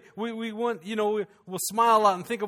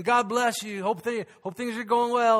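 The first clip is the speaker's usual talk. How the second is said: cheery blessing; 4 semitones higher, 3 dB louder than usual. Retold or imitated. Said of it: "I was smiling, saying".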